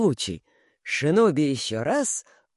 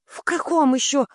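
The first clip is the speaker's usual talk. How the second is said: cracking into falsetto; 10 semitones higher, 4 dB louder than usual. A narrator's reading. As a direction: voice breaks up high in alarm. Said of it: "срывается на фальцет". (срывается на фальцет)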